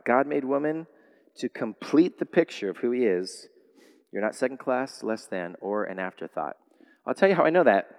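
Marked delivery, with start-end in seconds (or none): 0.1-6.6 hushed repetition. Shown as a demonstration.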